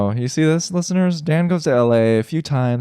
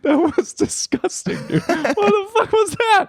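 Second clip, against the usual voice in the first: shrieking much higher in real disgust; real disgusted shock. Real, not acted. Friend reacting to a gross face, real disgusted shriek. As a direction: squeal it out, horrified by the face. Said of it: "Don't ever make that face again".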